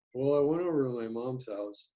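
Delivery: flat, even line with no accents; a deliberately dull, unstressed delivery; monotone demo. Shown as a demonstration. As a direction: read it with no emphasis anywhere. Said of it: "if it's really monotone".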